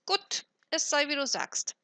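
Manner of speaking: put-on high, loud old hag giving in; grim crone call. A narrator's reading. Old woman agreeing to buy, grim high crone voice. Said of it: "rief die Alte mit grimmigem Blick".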